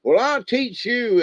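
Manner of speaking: lightly voiced grumpy bear; mock gruff bear. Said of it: "trying to be gruff right back to her".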